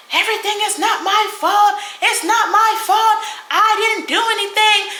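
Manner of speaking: high, whiny mock protest; mocking Big B's whiny protest. Mocking Big B as she protests she's not to blame, high and whiny. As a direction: imitate her crying out that it's not her fault. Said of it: "she get to going off".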